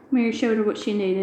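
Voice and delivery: ordinary delivery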